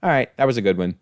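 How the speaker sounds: a light take on a director conceding, barely voiced; imagined grudging Singer. Reviewer imagines director Singer admitting the costume dig, lightly voiced. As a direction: concede the joke with a grudging nod. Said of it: "I hope you are watching this very episode and going".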